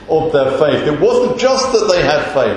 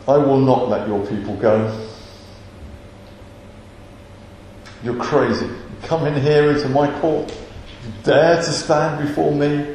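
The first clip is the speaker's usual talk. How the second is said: lightly voiced haughty Pharaoh, restrained; controlled menace without raising the voice; stern ruler's threat; 3 semitones lower, 4 dB quieter than usual. Pharaoh refusing Moses in his court, quietly threatening.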